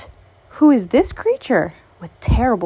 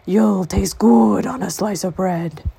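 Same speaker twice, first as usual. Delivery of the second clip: monster voice; 4 dB louder than usual. Acted. Gruffalo threatens mouse.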